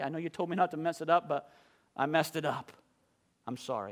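put-on a young worker's meek plea; contrite apology. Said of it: "and I said".

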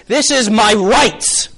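hammed-up standing up for yourself; defiant child. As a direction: assert it to your parents, mock-bold. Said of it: "you said to your parents".

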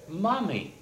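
put-on high, wondering child's voice; little girl. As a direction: ask it like a small girl who can't believe it. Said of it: "Alice, said".

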